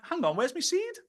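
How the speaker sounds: high, puzzled "hang on" call; confused. Pretend. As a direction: hunt around for the missing seed. Acted quote of confused seller.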